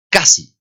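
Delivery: "Casi" as a crisp model word; hard K. Shown as a demonstration. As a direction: hit the first syllable of "Casi". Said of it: "La C o la K se pronuncian como".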